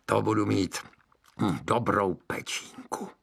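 relishing witch. Acted.

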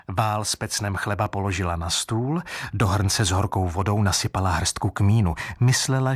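usual speaking voice

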